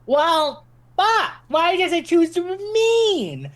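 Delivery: high, loud anguished wail, slowed on the question; high-pitched panicked lament; panicked despair. Acted. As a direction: cry out as if doomed. Character realizes the portal closed.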